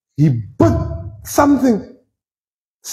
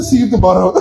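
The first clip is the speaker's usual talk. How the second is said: breezy offhand farewell; casual goodbye; 3 semitones lower, faster than usual. Acted. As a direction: toss it off lightly as if leaving. Mock casual goodbye to Jesus.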